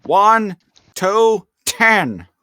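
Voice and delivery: high, hammy gangster countdown; gangster movie quote. Retold or imitated. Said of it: "that Home Alone quote".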